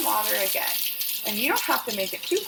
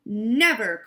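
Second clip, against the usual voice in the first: mild cry; 5 dB louder than usual. Acted. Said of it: "cried Skunk".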